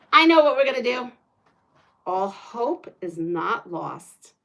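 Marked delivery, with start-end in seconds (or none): 2.1-4.3 slow, lower, softer mock-epic line; mock dramatic. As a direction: say it like a movie hero, hammed-up. Dramatic announcement of plan.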